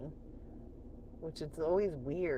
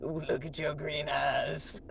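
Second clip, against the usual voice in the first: slow, imitated come-on; man hitting on her; slower than usual. Streamer mimics guy hitting on her at work, slow come-on. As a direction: draw it out like a flirting guy. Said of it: "he's all like".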